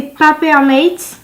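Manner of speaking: Papermate said the English way, slowly; English accent. Real, not acted. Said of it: "désolé pour mon accent anglais". (Papermate prononcé avec l'accent anglais)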